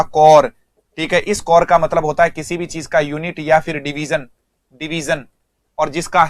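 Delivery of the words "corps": "कोर" with the final P and S left silent. Shown as a demonstration. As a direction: say "कोर" like English core, ending on R. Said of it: "इसका pronunciation होगा".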